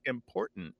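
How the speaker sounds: important with a throat catch for the middle T; glottal T. Shown as a demonstration. Host showing words that change, glottal T in important. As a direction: swallow the T in important into a glottal stop. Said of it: "that D sometimes becomes a glottal".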